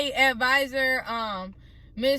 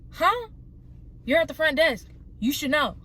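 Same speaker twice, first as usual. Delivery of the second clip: exasperated disbelief; 4 semitones higher than usual. Retold or imitated. Confronting the front desk lady.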